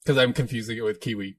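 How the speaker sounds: Australian slipping into Kiwi; muddled Antipodean accent; mangled Australian accent. Pretend. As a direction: attempt Australian and drift toward Kiwi. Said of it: "I'm totally mangling right now".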